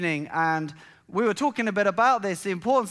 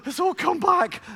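high, louder, still laughing; laughing through words; 12 semitones higher, 5 dB louder than usual. Real, not acted. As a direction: speak while the laugh fades. Laughing as memory returns.

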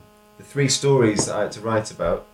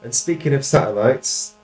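poem recital; 4 semitones higher, 7 dB louder than usual. Shown as a demonstration. Reads own poem aloud.

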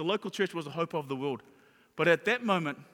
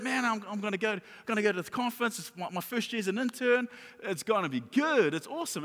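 slightly higher, eager self-talk; mild retold excitement; 4 semitones higher than usual. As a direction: re-enact looking forward to something. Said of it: "I was excited".

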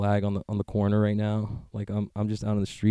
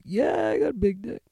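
mock boast; 11 semitones higher than usual. Boastful quote to strangers.

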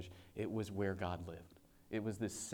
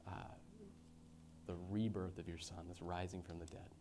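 earnest closing prayer over the congregation; heartfelt pastor's prayer. Acted. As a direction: pray sincerely for the holy week.

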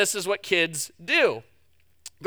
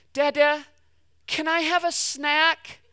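put-on higher, slow, whiny little girl "can I have a snack"; squealier child asking; 5 semitones higher, slower than usual. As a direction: stretch it out like a pleading toddler. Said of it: "her voice gets a little bit louder and a little bit squealier".

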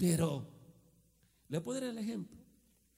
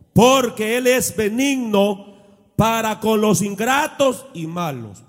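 louder preaching read of scripture; 4 semitones higher, 15 dB louder than usual. Acted. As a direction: declaim the verse to the church. Reading scripture with force. (predicación fuerte leyendo la Biblia)

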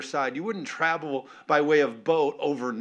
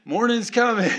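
"Morning's coming" pushed out louder with a laugh; laughing insistence; 7 semitones higher, 6 dB louder than usual. Real, not acted. Pastor assuring the congregation, laughing and louder. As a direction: laugh through it as you insist. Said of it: "still standing here trying to tell you".

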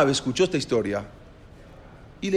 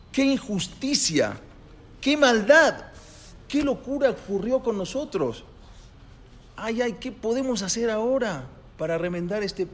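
despairing cry; 8 semitones higher than usual. Acted. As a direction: wail it like a broken-hearted rabbi. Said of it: "se desesperó". (el rab se lamenta desesperado ante su error)

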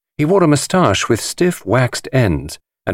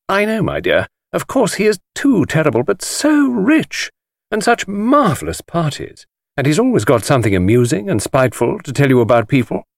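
very high, gushing society woman; gossiping ladies; 7 semitones higher than usual. A narrator's reading. Women gush about Chaitana's parties, very high. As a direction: gush it like a thrilled society lady. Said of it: "grandmothers said".

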